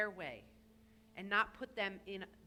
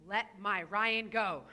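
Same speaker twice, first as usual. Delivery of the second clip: slow, louder, booming proclamation; proclaiming Moses; 6 dB louder, slower than usual. Retold or imitated. Rabbi voicing Moses before Pharaoh, slow louder proclamation. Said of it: "and say".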